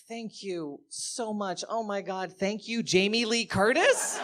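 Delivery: high, breathless gushing gratitude, slowing on so much; overwhelmed fan thanking her hero; gushing thanks. Retold or imitated. Comic thanking Jamie Lee Curtis, gushing high. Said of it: "I'm like".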